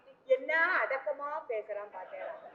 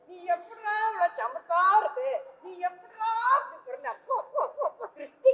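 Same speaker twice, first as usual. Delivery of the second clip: doting praise. Acted. Mother dotes on son again.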